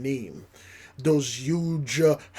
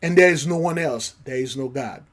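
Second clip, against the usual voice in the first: scripture quote; 3 semitones higher, 6 dB louder than usual. Pretend. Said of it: "Caesar say".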